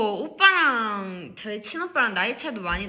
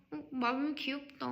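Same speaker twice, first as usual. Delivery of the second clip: soft, higher-pitched cooing aside; demonstrated cute compliment; 4 semitones higher, 10 dB quieter than usual. Shown as a demonstration. Showing how calling Marble cute began, soft coo. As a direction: coo it softly, trying the word out. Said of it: "이렇게 돼서".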